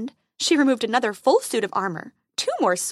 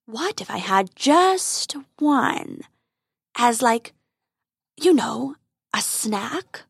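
growling dragon guarding treasure; much slower than usual. Acted.

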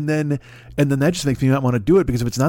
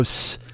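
snake hiss. Retold or imitated. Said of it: "'cause a snake would go".

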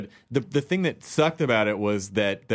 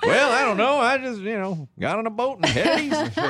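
high, goofy put-on hick voice; hammed-up clueless redneck; 11 semitones higher than usual. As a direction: play a clueless redneck, laughing.

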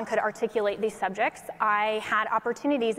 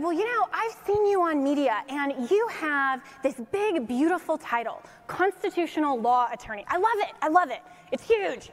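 raised-pitch impression of an effusive admirer; President Trump; 5 semitones higher than usual. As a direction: imitate a politician lavishing praise, punching the compliments. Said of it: "And he said".

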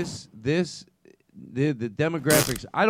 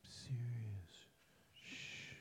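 whisper yelling; 23 dB quieter, much slower than usual. Real, not acted. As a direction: hiss it to hush them. Quiet time whispering.

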